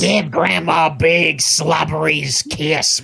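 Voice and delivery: slow, put-on old lady coo; elderly singsong. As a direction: drawl it like a smothering grandma. Voicing a grandma.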